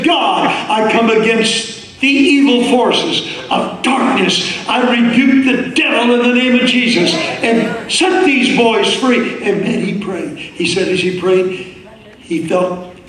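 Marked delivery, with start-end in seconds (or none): 0.0-9.4 slow, higher retold rebuke of the devil in prayer; fervent prayer. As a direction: pray like you mean it, imitating him. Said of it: "he kicked in the second gear".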